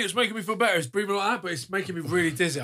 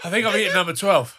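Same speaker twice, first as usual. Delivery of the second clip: laughing in distress; 8 dB louder than usual. Real, not acted. Realizes he ate the hottest.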